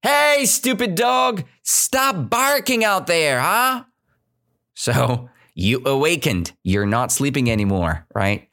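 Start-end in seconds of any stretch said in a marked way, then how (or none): 0.0-3.8 mock angry shout at dog. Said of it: "You start screaming".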